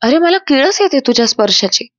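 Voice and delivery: a touch of protesting shout; mild mock yell. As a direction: act out an indignant yell without full volume. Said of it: "अनामिका ओरडते आणि म्हणते".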